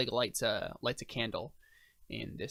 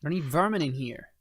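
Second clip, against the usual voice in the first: lightly voiced NPC; 4 semitones higher, 3 dB louder than usual. NPC rejects meerkats.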